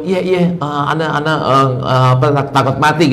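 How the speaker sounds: a hint of a scared man stammering; mock fearful man. Preacher imitating a man who fears death, mildly stammering. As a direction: lightly play someone afraid of dying. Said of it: "kayak orang takut mati".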